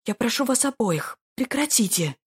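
high, frightened pleading; frightened plea. A narrator's reading. Lady begging quarrelling men, frightened plea. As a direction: beg them both to stop, scared. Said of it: "взмолилась напуганная происходящим леди".

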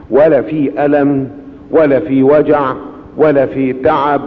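slow, weighted emphatic list; slow preaching cadence. Acted. Preacher stressing there was no pain to the congregation, slow and weighty. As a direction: lay each point down slowly.

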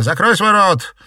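high, loud furious shout; yelling. Acted. Daughter shouting her mother into silence, furious. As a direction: slam the order at her.

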